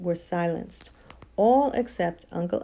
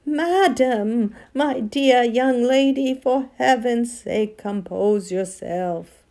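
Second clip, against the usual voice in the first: high, loud, drawn-out pleading that sinks at the end; trembling scream; 4 semitones higher, 5 dB louder, slower than usual. A narrator's reading. Uncle Andrew begging the witch to stop, trembling scream. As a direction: plead in a trembling, raised wail. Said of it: "in a sort of trembling scream".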